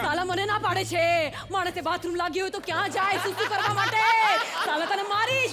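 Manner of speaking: put-on possessed complaint with a Gujarati accent; Gujarati Manjulika. Judge denied the bathroom on request turns Gujarati, mock-possessed. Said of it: "Gujarati Manjulika".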